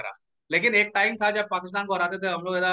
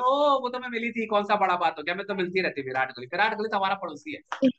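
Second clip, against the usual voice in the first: playing it down. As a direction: shrug it off as no big deal. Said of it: "Sophie थोड़ा under play कर रही है".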